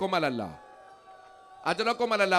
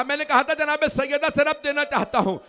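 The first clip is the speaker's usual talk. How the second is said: the same line raised louder and higher; 5 semitones higher, 8 dB louder than usual. Shown as a demonstration. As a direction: lift the sentence up, louder, into a cry. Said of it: "پھر ایک جملہ کہا". (اونچی اور بلند آواز میں وہی جملہ)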